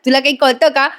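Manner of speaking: fed up, hurry them along; irritated, mock. Priya snaps at Vimal and calls Sayali, mock exasperation. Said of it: "Priya वैतागून म्हणते".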